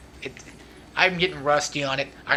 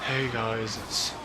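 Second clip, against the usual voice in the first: low-energy, quiet, slow generic youtuber; mock a dull YouTuber reading his intro; bland let's player; 3 semitones lower, 10 dB quieter, slower than usual. Mocking boring let's players to his viewers, quiet and flat. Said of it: "regular Let's Players and be like".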